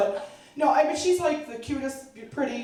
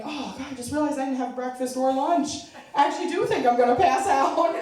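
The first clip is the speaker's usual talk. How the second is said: hammed-up fear of fainting; mock faint panic; 5 semitones higher than usual. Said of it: "I'm like".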